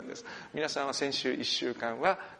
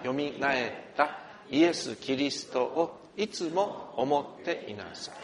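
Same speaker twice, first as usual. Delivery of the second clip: slow, solemn reading of the verse; measured formal Bible reading; scripture reading; slower than usual. Real, not acted. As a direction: read each phrase slowly and deliberately. Reads the Bible passage aloud.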